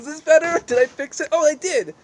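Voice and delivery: pleased surprise, voice jumping up; excited relief. Real, not acted. Vlogger finally centring her face on camera, delighted high exclaim.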